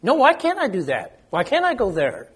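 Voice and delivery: lightly voiced protesting child; imitating a child. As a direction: whine it like a kid pushing back on a parent. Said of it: "heard children say that as they grow up".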